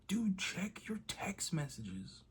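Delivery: re-enacted exasperation, drawn out and slow; exasperated retort. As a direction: spell it out slowly for a clueless dad. Acting out his exasperated reply to dad.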